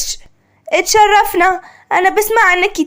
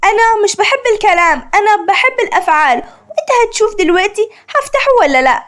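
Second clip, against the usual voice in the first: irked; 4 semitones higher than usual. Acted. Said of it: "عشق بغيظ".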